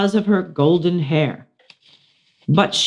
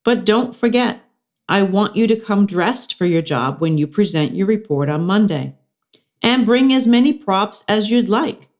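higher teacher reminder; 5 semitones higher than usual. Acted. Missus Brisbane reminding the class, higher pitch. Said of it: "Missus Brisbane said".

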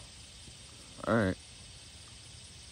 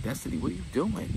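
higher female voice; 8 semitones higher than usual. Retold or imitated. Victoria voiced.

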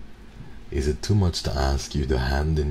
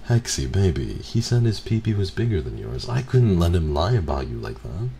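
higher and louder, over-the-top pleading; hammed-up sappy boyfriend; 6 semitones higher, 4 dB louder than usual. Boyfriend pleading with his girlfriend, over-the-top and sugary. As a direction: push the syrupy excuse even harder. Repeating the excuse, more hammed.

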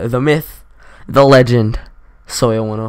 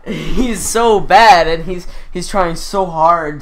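mock pity drawn out; 4 semitones higher, 3 dB louder, slower than usual. Real, not acted. Roaster exaggerates pity.

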